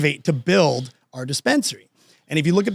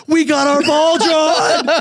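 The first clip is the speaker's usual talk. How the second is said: much higher, slow and drawn out; excited news; 12 semitones higher, 4 dB louder, much slower than usual. Retold or imitated. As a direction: savour the big reveal. Friend announcing lottery win.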